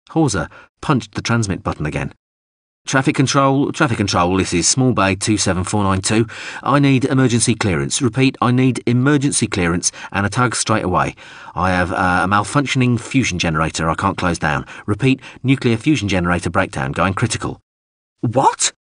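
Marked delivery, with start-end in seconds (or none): 2.9-17.6 pressing emergency radio call; urgent distress call. Acted. Faked emergency radio call to control. 18.2-18.7 tiny, very high drone voice; small screech. Acted. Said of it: "a small voice screeched".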